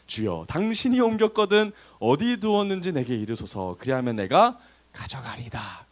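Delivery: slow, measured verse reading; scripture reading. A narrator's reading. Preacher reading the resurrection account to listeners, slow scripture reading. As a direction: read it out deliberately, drawing out phrase ends. Reads the Bible verse aloud.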